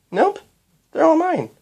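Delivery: put-on high, proud child voice with a grin; grinning. A narrator's reading. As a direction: answer as a grinning little girl. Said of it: "said Twilight with a grin".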